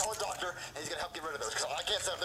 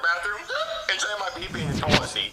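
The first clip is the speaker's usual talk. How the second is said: Jeffy voice; 8 dB louder than usual. Acted.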